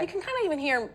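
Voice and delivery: slightly raspy from a cold; a touch of cold hoarseness; hoarse voice. Real, not acted. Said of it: "I'm, like, getting over a cold".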